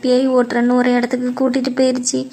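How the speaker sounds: mildly tearful, even-pitched lament; acted tearful complaint. Upset younger woman confides family trouble to older friend, mildly tearful. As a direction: pour out your troubles with a touch of crying. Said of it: "ஏன்டி அழுகுற".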